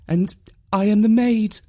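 high-pitched maid answering back; maid's voice. A narrator's reading. Maid corrects visitor at door.

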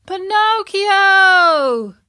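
long drawn-out high call across the road; slow loud high call of a name. A narrator's reading. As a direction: hail your friend from the wagon. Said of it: "Lampwick called out".

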